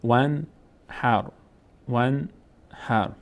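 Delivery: careful spaced model of ون هر; silent connecting alef. Shown as a demonstration. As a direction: read ون هر as "wan... har", alef skipped. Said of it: "اینجا هم همینطور".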